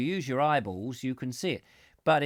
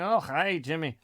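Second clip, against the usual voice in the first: lightly put-on cliché Scottish accent; mock Scottish. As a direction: play an abusive cliché Scotsman. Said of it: "I don't know why they would be Scottish".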